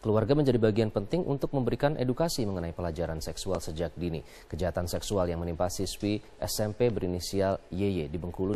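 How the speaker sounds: measured TV news introduction; news anchor read. Acted.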